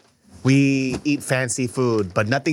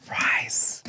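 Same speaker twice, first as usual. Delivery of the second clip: whisper; 6 dB quieter than usual. Pretend. Whispered food announcement.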